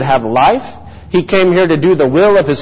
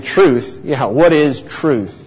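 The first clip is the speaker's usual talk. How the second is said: slow, mildly mocking question; 3 semitones lower, slower than usual. Shown as a demonstration. Preacher acts out Pilate answering Jesus, mocking. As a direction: scoff lightly at the very idea, taking your time. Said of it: "Was it a mocking tone of voice".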